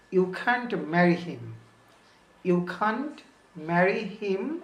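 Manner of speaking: each word said slowly and separately; slow careful. Shown as a demonstration. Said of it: "এটা একটু দ্রুত বললে".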